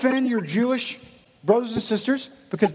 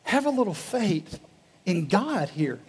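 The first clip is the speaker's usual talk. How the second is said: gentle reassurance. Retold or imitated. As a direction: coax them gently to trust. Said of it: "He'd say".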